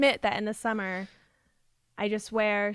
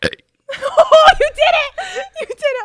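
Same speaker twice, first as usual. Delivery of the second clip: high excited cheer; 12 dB louder, slower than usual. Real, not acted. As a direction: cheer her on with delight. Friend burps letter A.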